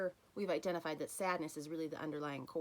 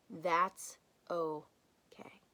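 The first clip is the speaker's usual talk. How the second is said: whispered reassurance; 4 dB louder, much slower than usual. Real, not acted. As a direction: breathe it out gently and slowly. Key reassurance after tears welling.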